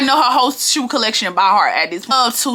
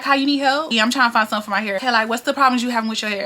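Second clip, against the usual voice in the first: flirting with a fine customer at the job; flirty customer service; faster than usual. Shown as a demonstration. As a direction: talk loosely to charm him. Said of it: "I'm being flirty 'cause he's fine".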